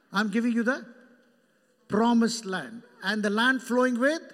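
loud, ringing proclamation; booming promise to Israel; 1 proclaimed loudly. Acted. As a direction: call it out like God's promise.

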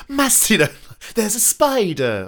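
Charlie Day. Retold or imitated. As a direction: imitate him singing at a keyboard. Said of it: "Charlie Day from It's Always Sunny doing his songs".

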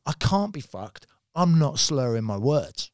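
imitated slow, deliberate insistence; measured mock protest; slow insistent denial. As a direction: spell it out as the friend would. Retold denial of being high.

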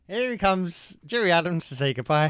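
gruff Irish impression; a gruff put-on politician voice; Gerry Adams voice. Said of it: "very gruff voice".

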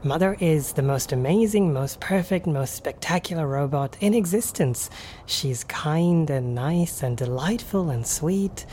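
gushing praise, item by item; adoring robot praising its maker; devoted robot guide. Acted. GM plays devoted robot Clara.

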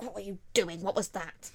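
lightly voiced indignant question; understated disbelief, close to normal volume; milder demand. Aria questioning her best friend, mildly indignant. Same quote, resumed more calmly.

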